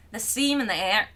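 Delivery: badly faked Irish-Australian accent; Australian attempt turned Irish. Shown as a demonstration. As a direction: read it in a botched Australian accent that comes out Irish. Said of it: "That was Irish".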